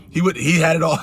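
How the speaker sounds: giggling through the words; laughing. Real, not acted. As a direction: laugh while blaming him. Laughing at brother's punishment.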